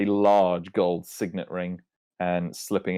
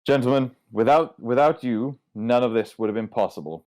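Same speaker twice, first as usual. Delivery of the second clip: booming captain; 3 semitones higher than usual. Acted. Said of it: "Luther says".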